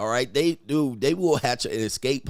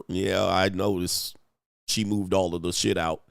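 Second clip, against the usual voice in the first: lightly voiced old neighbor, pitched down; old lady neighbor; 6 semitones lower than usual. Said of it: "old lady neighbor come over here".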